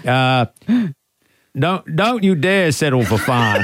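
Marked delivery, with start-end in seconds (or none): 1.6-3.6 put-on Ted Lasso accent. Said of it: "Can you say it with his accent?".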